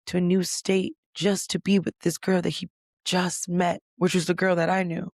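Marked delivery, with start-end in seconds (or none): none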